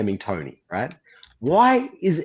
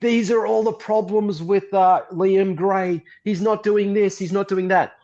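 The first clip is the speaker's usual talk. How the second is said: mock manifesto voice; 7 semitones higher than usual. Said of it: "he posted a manifesto where he goes".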